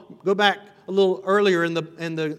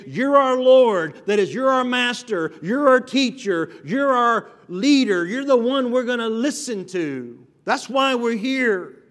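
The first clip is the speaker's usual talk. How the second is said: fervent crowd voice; 4 semitones higher, 4 dB louder than usual. Acted. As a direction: voice the crowd proudly claiming their teacher. Voicing the crowd's claims.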